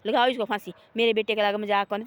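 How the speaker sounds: enraged king ordering the minister hanged; angry king's order. Acted. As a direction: order the hanging in a temper. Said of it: "वो राज्य को आए गुस्सा".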